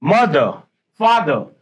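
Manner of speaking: teacher models the British silent r. Shown as a demonstration. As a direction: drop the final r on मदर and फादर. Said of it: "आर silent हो जाता है".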